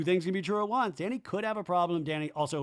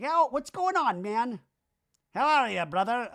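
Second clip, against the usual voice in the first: much higher, bro-ish greeting voice; Danny impression; 9 semitones higher, 4 dB louder than usual. Danny greeting his friends, high pumped bro voice. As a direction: play a pumped-up buddy greeting, pitched way up. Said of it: "And Danny's like".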